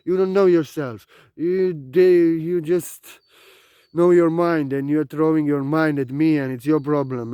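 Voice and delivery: angry outburst. Retold or imitated. Teacher yelling at a student crashing his class. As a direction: tell him off, yelling. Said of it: "angry, like I said".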